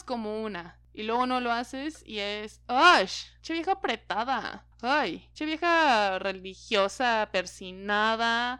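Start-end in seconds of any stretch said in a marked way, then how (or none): 2.7-8.6 a loud scoffing "ay" then slow, drawn-out sneer; mock disdainful gossip. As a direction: imitate a gossip dismissing a prude. Mimicking insult to women. (burla desdeñosa, lenta, de chismosa)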